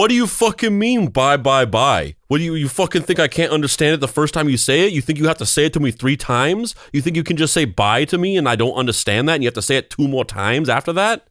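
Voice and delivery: hammed-up New York indignation; angry Paul Sorvino. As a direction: rant like you've been personally insulted. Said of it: "extremely angry about everything all the time".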